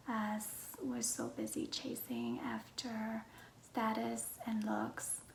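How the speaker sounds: hushed, half-whispered self-introduction; soft-spoken vlog. Real, not acted. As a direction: talk gently, close to a whisper.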